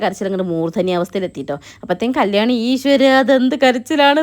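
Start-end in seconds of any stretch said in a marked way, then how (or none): 2.7-4.2 loud, slow, dismayed "oh god, what crying"; shocked exclamation. Retold or imitated. Vlogger voicing cousin's stunned look at baby's crying, slow loud dismay. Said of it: "എന്നുള്ള മട്ടിൽ തന്നെ ഓളെ നോട്ടം".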